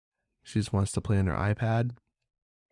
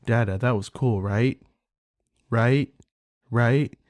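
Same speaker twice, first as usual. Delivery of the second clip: daughter nagging for attention; 2 semitones higher, 5 dB louder, slower than usual. Retold or imitated. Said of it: "She'll be like".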